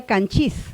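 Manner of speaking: canchis with the weight on final CHIS, rising; stress on last syllable. Shown as a demonstration. Teacher imagining a native Pano form, end-stressed. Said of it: "Sería canchis".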